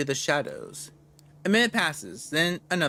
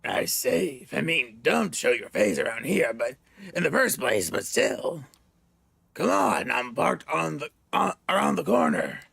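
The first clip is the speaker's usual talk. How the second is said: gravelly voice. Acted. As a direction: growl it like a grizzled partner. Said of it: "the gravely voice".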